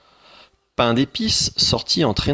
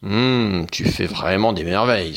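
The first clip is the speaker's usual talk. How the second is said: enthusiastic ogre; 4 dB louder than usual. Acted. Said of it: "s'enthousiasma l'ogre".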